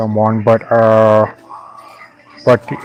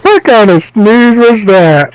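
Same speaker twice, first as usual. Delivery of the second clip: high, slow, mock demon voice; demonic voice; 9 semitones higher, 5 dB louder, slower than usual. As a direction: stretch it out slowly like a demon. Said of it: "I'm gonna say it in a demonic voice".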